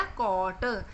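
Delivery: कॉट blended slowly, long "ko" then "tuh"; sounded out. Shown as a demonstration. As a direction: hold the vowel of कॉट before a separate ट. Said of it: "क्या बन गया".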